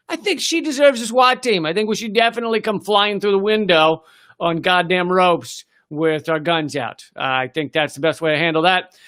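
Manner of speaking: put-on deadpan sarcasm about sending a swat team after an old lady; sarcastic. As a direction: sneer by pretending to agree. Sarcastic mock support for raids.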